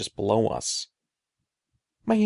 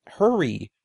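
pleading; 2 semitones higher, 4 dB louder than usual. Acted. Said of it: "Eddie pleaded".

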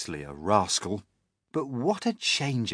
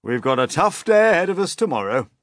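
put-on old grasshopper; 5 semitones higher, 7 dB louder than usual. A narrator's reading. Grasshopper sends everyone to bed.

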